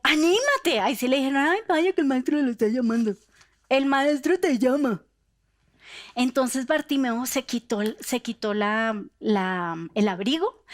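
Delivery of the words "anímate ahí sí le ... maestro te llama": bright, louder cheering on; now suddenly all encouraging; eager encouragement. Acted. Crowd now eagerly urging the blind man on. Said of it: "llamaron al ciego".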